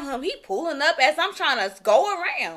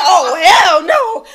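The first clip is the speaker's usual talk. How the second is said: slow, louder laughing oh hell no; laughing shout; 2 semitones higher, 9 dB louder, much slower than usual. Retold or imitated. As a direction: drag it out in disbelief. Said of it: "I said".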